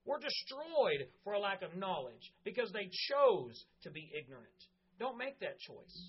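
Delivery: earnest preaching to the congregation; sermon delivery. Real, not acted. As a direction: preach it with conviction.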